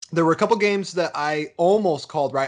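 talking with a mouth full of ice cream; words around a spoonful. Real, not acted. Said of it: "I'm eating two blizzards right now".

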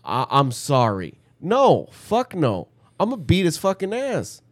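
heated retold rant, pitch jumping up; really mad. Retelling an outburst at the cousin about being walked over, angry. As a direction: vent it indignantly, punching the key words. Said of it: "And I got really mad".

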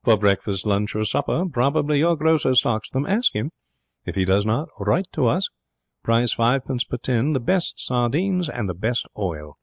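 lilting, emphatic advertisement recital; a touch of grandeur, slowing to finish; eloquent reading. A narrator's reading. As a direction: read sales copy as if it were oratory. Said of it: "with an added touch of eloquence".

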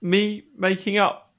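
put-on hesitant British fishmonger accent. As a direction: question it in a theatrical British accent. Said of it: "You mean I have to use my real accent?".

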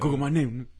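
loud, high and laughing. Real, not acted. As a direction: call it out with a laugh. Repeats line louder, laughing.

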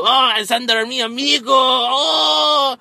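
high, loud cheer for a buddy; cheering fan. Retold or imitated. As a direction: hoot it high like an excited fan. Crowd cheering Xander in retelling.

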